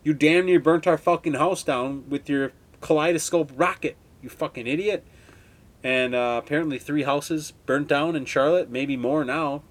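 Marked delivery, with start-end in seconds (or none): 0.0-5.0 loud opening shout, then a mock rant; imitating yelling at the neighbor; retelling a shout at the careless neighbor, heated; retold angry yell. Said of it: "I'm like".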